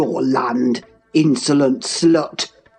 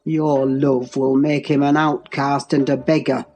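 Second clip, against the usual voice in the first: low, controlled menace; deep, measured threatening calm; assumed calmness; 4 semitones lower than usual. A narrator's reading. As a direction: hold the anger down in a deep voice. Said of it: "said with assumed calmness".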